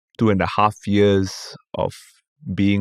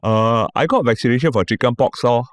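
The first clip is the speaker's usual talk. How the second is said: auntie voice in Singlish; lightly voiced Singaporean auntie; 2 semitones higher than usual. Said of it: "one Chinese auntie went".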